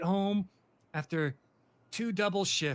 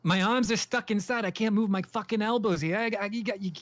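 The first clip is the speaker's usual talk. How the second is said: raised pitch, urgent plea for help; stuck and demanding to be pulled free; agitated pleading; 3 semitones higher, 3 dB louder than usual. Acted. Acted: stuck, begging to be pulled.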